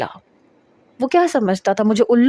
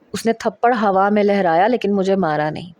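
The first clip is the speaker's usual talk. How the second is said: usual speaking voice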